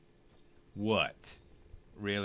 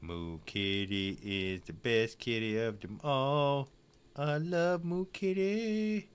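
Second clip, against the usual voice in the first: doting pet talk; 3 dB quieter, slower than usual. Real, not acted.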